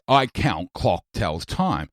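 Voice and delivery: "I count clock tells time" slowly, each word stressed; stressed syllables only. Shown as a demonstration. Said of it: "the stressed syllables tell a story".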